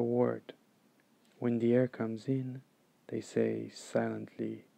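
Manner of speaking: calm, measured meditation guide; guided meditation. Acted. Meditation teacher guiding listeners to follow the breath, calm and unhurried. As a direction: lead them through it evenly, with long pauses.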